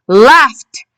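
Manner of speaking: "Laughed" ending in a crisp t; final t sound. Shown as a demonstration. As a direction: say "Laughed" with the ed as a separate, audible t. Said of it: "listen to the t".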